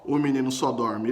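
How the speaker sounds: a hint of God answering gently. God tells Paulo the boy sleeps, lightly voiced. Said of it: "ouve uma voz assim dizendo".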